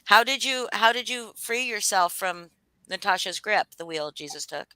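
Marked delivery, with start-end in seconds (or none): none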